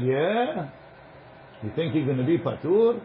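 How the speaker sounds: mild sarcastic disbelief; a light sarcastic challenge; sarcastic question. Shown as a demonstration. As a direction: ask it mockingly, as if doubting him. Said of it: "Sarcastically, with a question".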